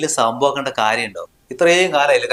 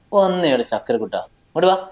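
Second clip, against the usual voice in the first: put-on coaxing a child; 2 semitones higher than usual. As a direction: sweet-talk the little one over to you. Father coaxing his little son.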